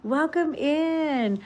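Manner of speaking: high, loud, slow delighted welcome; excited greeting. Real, not acted. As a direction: gush over a friend arriving on the stream. Greeting a viewer joining live.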